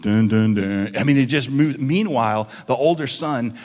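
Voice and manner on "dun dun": low, loud dun dun; movie sting voiced low; dramatic soundtrack sting. Shown as a demonstration. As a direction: mimic an ominous movie cue. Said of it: "movie soundtrack shifts to".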